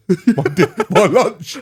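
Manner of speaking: cracking up. Real, not acted. Co-host imagines husband eating nail clippings, cracking up. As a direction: try to get the words out while laughing.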